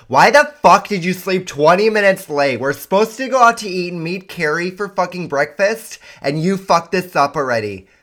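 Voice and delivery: mock furious wife yelling; nagging wife. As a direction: tear into him for sleeping late. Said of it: "reality is like".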